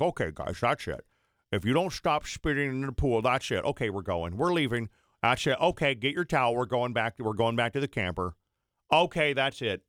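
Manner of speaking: lightly voiced exasperated mom at the pool; imitated scolding mom. Mom warning two bratty boys at the pool, mock scolding. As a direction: mimic a mom making empty threats. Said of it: "she talked like this".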